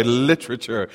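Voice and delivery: lightly imitated relish on LITERATURE; imitated literature lover. Repeating how the camp speaker said it, mild relish. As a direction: echo the speaker's savoring way of saying LITERATURE. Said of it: "he said it that way".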